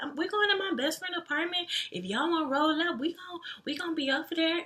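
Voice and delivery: high-pitched imitation of a friend announcing plans. Friend invites the guys to follow, imitated high-pitched voice. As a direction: mimic her high, matter-of-fact invitation. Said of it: "high-pitched voice".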